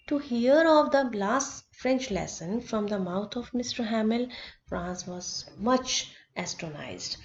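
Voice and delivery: reads the English line out slowly, word by word; slow text reading. Acted. Teacher reads the story text to students, slow and deliberate. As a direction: read each phrase slowly for the class.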